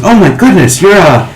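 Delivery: put-on high, eager little boy; excited child. Boy amazed by the skipping performer, high eager child voice. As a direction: gush like an impressed kid. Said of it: "He goes".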